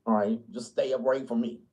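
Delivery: lightly voiced blunt redneck; hint of don't-care brush-off; gruff conservative. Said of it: "They just be like".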